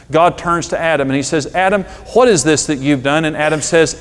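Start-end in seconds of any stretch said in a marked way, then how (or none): 1.5-3.3 God questioning. Retold or imitated. God voiced.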